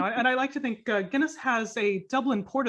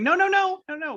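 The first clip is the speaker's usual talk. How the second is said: high, loud emphatic no-no-no; insistent nerd objection; 10 semitones higher, 7 dB louder than usual. Retold or imitated. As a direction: shout down the claim like a pedant. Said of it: "very saying".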